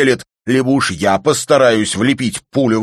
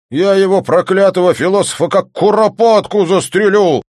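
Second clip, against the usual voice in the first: builds to a much higher, louder furious shout; furious rant; 8 semitones higher, 8 dB louder than usual. Acted. Volyntsev vowing to shoot the philosopher, building fury. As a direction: work yourself into a rage. Raging about duel.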